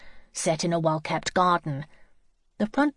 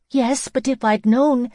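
higher, louder, distressed protest; agonised doubt; 6 semitones higher, 6 dB louder than usual. A narrator's reading. Lizzie learns of the school too late, agonised. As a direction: waver in anguished regret. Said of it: "in an agony of doubt".

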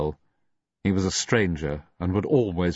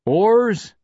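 high, loud barked order; shouted command; 7 dB louder than usual. A narrator's reading. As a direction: snap the command out. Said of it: "Bolitho called".

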